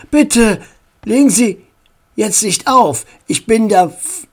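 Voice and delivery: lightly voiced formal caller; a hint of an earnest, pleading notary; notary on the phone.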